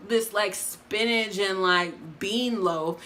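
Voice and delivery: high, indignant complaint; exasperated. Retold or imitated. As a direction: vent in disbelief. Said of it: "I'm like".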